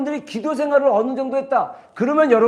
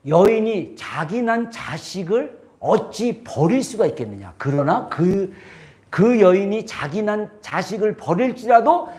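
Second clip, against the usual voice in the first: voice of God; 4 semitones lower than usual. Retold or imitated. God's words quoted in sermon.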